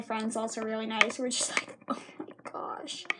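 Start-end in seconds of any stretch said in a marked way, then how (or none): 1.9-3.1 soft, slow whispered horror; hushed shock. Retold or imitated. Friends at the table watching the disaster, slow shocked whisper. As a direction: whisper it slowly, as if aghast.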